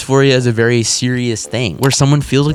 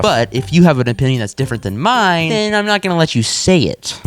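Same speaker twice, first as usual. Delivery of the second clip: mock impression. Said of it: "A little hypocritical".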